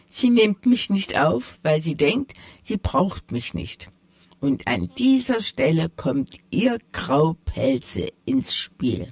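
a hint of a proud tomcat setting things straight; sly tomcat. The tomcat corrects the mice, lightly voiced and proud. Tomcat explains his plan.

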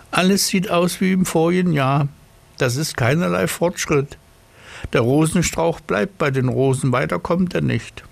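high, self-important snail. Acted. Snail speaks after crawling out.

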